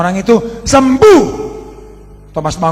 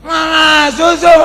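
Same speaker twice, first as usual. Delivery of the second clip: put-on high shouted child's cry for milk; child calling out; 11 semitones higher, 8 dB louder, slower than usual. Preacher mimics his child shouting for milk. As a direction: yell it like a small child at night.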